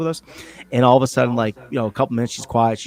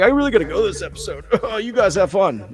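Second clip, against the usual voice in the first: high-pitched put-on voice, laughing midway; Keith; 10 semitones higher, 4 dB louder than usual. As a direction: imitate a co-host bowing out. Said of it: "Keith's like".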